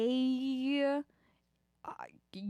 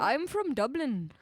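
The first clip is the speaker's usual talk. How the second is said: attempted Irish accent. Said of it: "trying to do an Irish accent".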